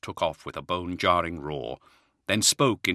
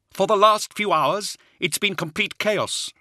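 slow, much higher, weary officer; grimly; 13 semitones higher, 5 dB louder than usual. Acted. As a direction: report the chaos grimly. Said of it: "Hadziel said grimly".

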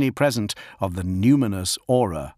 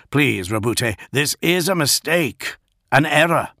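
plea climbing high and louder; urgent plea; 6 semitones higher, 4 dB louder than usual. A narrator's reading. The lion begs Gilliman to believe him, rising urgently. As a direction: start pleading, build to desperate insistence. Lion pleads for his warriors.

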